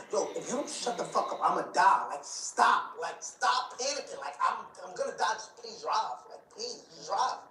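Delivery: high, urgent begging to drive; panicked pleading. Retold or imitated. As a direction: plead for your life with the cab driver. Bleeding, begging the cab driver.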